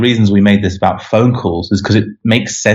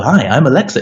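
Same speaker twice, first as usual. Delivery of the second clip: lightly imitated assistant greeting, pitched up; a hint of a cheery voice assistant; Alexa; 5 semitones higher than usual. Voice assistant saying hello to a user, lightly imitated. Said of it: "speak back to you like".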